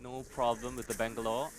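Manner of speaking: esports caster calling the fight; live play-by-play. Real, not acted. Caster calls a gunfight for viewers, live play-by-play. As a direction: call the action, lifting pitch on the big moments.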